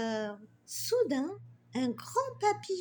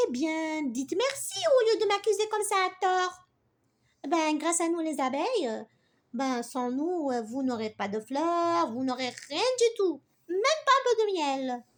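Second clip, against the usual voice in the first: proud. Acted. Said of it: "Zozo, fière".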